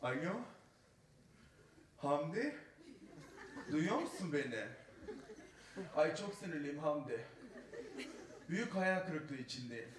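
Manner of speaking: a hint of a whiny, effeminate phone call; lightly voiced camp moaning on the phone; camp friend phoning from space. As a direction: complain down the line to Hamdi. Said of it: "Mesela arıyor bizi orada".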